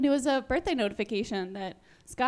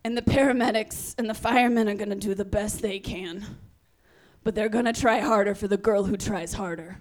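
grandma voice; 3 semitones lower, 3 dB louder than usual. Retold or imitated. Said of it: "she's like".

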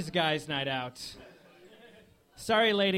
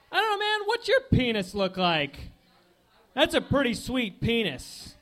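frat guy voice; 3 semitones higher than usual. Acted. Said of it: "my impression of two guys in a fraternity".

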